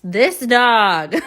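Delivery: exasperated laugh, high; laughing at the dog. Real, not acted. Owner laughing at her puppy's chewed box.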